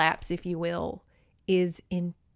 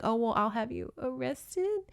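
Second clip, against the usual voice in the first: mock cute threat; 4 semitones higher, 4 dB quieter than usual. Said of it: "he's trying to be cute and say".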